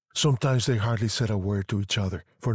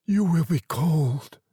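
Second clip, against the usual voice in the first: slow, higher-pitched, tender urging; 8 semitones higher, 3 dB louder, slower than usual. A narrator's reading. Old man urging his wife back to bed, tender. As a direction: coax with slow, drawn-out concern. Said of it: "he said tenderly".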